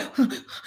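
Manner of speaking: voiceless stressed-out huff, acted out; retold crying breath; imitated crying breaths. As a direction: mimic a tearful, heaving breath. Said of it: "I'm crying".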